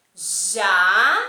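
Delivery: "Javali" split into JA, VA, LI with long gaps; syllable by syllable. Shown as a demonstration. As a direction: sound out "Javali" slowly, one loud syllable at a time. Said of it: "disser uma sílaba da palavra". ("Javali" em sílabas bem separadas e lentas)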